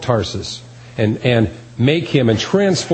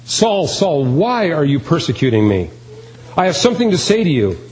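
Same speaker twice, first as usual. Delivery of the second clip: proclaiming from heaven, a touch raised; divine voice from heaven; 3 semitones higher than usual. Pretend. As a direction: announce it like God calling from heaven. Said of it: "a divine voice from heaven saying".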